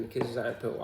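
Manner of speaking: "Kuzu Zangpo" with an imitated English accent; English speaker's accent. Imitating how foreigners pronounce the greeting, English accent. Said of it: "that's how they spell".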